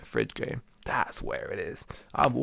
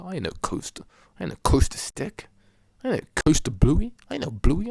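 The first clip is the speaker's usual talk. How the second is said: mock Batman lines; 5 semitones higher, 7 dB louder than usual. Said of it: "Batman was just like".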